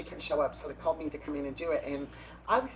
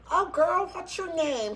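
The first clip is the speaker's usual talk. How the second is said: put-on much higher and louder Cajun Louisiana drawl of a pageant girl; Cajun accent; 13 semitones higher, 6 dB louder, slower than usual. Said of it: "Cajun accent".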